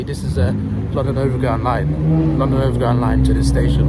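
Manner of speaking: loud imitated station announcer; train announcement voice. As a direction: read it like a platform tannoy. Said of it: "they normally say".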